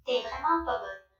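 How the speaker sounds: robot voice changer replayed; filtered robot voice. Shown as a demonstration. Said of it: "je le remets".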